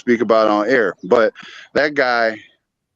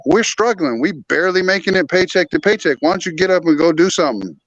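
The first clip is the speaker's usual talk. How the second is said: higher-pitched exasperated nagging, mildly acted; worked-up retold grumble, pitched up; retold pleading complaint; 5 semitones higher than usual. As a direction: retell an old frustrated plea to a partner. Acts out his old nagging at her.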